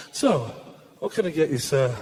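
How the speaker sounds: low, quiet barman voice. Retold or imitated. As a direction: ask calmly as a barman. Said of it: "the bloke who stands there and goes".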